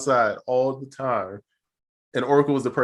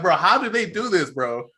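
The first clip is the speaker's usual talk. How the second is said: higher-pitched, incredulous retold question; amazed disbelief; 6 semitones higher than usual. Podcaster amazed by British actors' American accents, incredulous. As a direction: marvel at it in baffled disbelief. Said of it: "I'm so amazed".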